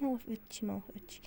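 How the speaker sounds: hushed defiant whisper under her breath; breathy secret whisper; whispered aside. Acted. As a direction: mutter it so mum won't hear.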